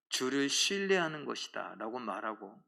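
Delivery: ordinary delivery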